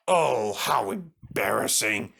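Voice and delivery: slow, low, tearful; ashamed and near tears, slowly; embarrassed. Acted. Gordon sneaking back in, slow, low and tearful. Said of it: "trying to sidle into the station without being noticed".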